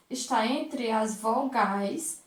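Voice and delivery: ordinary delivery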